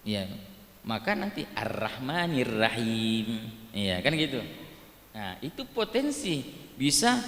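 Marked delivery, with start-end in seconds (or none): 1.4-3.4 Ar-Rahmanir Rahim drawn out slowly, r kept light; thin-r recitation. Shown as a demonstration. Teacher mimics a Makassar reader's thin r. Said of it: "Harusnya ro dibaca tebal, tapi jadi ra".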